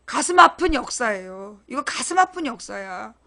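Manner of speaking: low, subdued, softly regretful; somber lament. Real, not acted. Speaker laments a painful history of farm policy, somber. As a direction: let it drop low and soft, heavy-hearted.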